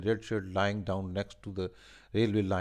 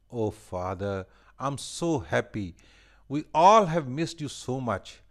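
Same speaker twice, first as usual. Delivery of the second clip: happy; 5 semitones higher, 7 dB louder than usual. A narrator's reading. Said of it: "she said".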